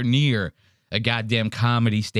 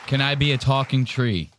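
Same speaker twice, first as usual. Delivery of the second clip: lightly voiced mock of her naive plea. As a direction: ask it like a hopeful girl, a touch overdone. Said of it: "That was hilarious".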